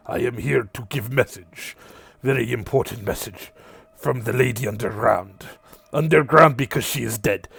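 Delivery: lightly voiced small creature, broken English; a hint of a squat beast delivering a message; Vorlo's voice. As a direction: GM voicing the creature Vorlo, mild and earnest.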